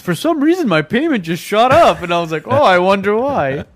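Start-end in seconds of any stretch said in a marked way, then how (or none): 0.0-2.0 naive homebuyer voice. Retold or imitated. Voicing the parent's explanation. 2.5-3.6 slow, higher mock wonder; sarcastic. Sarcastic reply to parent.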